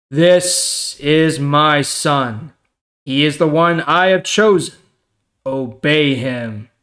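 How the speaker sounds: slow, solemn booming voice from the cloud; voice of God. Acted. Reading to the class as God speaking from the cloud, slow and solemn. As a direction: proclaim it slowly, like God speaking from above.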